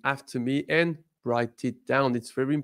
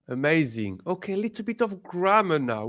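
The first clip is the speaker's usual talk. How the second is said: ordinary talk, nothing marked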